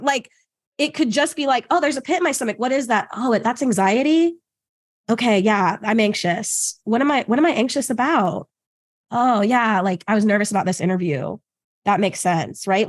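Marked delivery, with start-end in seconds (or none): 1.7-12.7 curious, then settling into calm acceptance; gentle self-inquiry. Acted. Person noticing a pit in the stomach, calm curiosity. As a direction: think it through kindly, pitch easing down. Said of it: "that's different than the".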